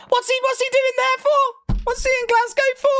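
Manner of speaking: fast, puzzled put-on Scottish local; Scottish accent. Mock Glaswegian asking about Batman.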